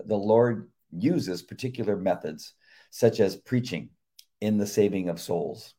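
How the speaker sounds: measured earnest sermon reading; devotional reading. Acted. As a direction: read it like a sermon. Reads devotional aloud.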